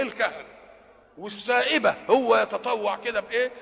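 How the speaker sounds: normal talking voice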